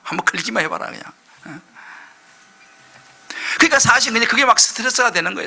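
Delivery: normal talking voice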